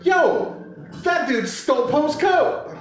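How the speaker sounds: high-pitched mock accusation. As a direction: blurt it out high like an indignant little droid. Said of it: "B B eight's like".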